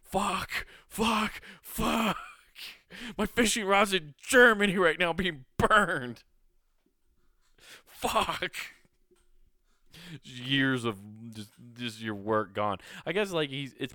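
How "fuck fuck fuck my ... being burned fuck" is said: high, strained mock lament; hammed-up despair. Owner picturing his rod burning in Germany, mock anguish. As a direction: wail over the burning rod, overdone. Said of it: "you're just like".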